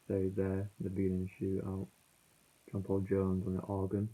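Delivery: muffled phone audio. Real, not acted. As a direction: sound muffled, as through a cloth. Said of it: "I'm sorry that it's muffled as well".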